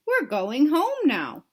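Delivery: slow, firm father; a lightly voiced firm dad; daddy voice. Daddy telling his toddler they're going home, slow and firm. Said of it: "replied her daddy".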